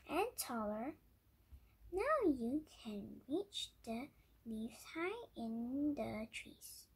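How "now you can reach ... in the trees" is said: put-on wise old sage. Wise man explains to giraffe.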